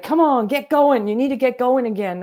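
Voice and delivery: mock urging. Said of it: "poke my stomach and be like".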